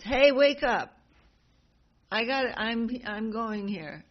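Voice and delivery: loud, high call to wake a sleeping monkey; hey, wake up, rouse him; shouting to wake him. Acted. Bhima yelling at the old monkey, loud and high.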